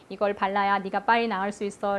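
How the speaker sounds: put-on softly and kindly coaxing a child; patient parent calmly explaining the medicine; kind, soft parental coaxing; gentle explaining. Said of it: "조곤조곤 이렇게 설명, 친절하게 설명을".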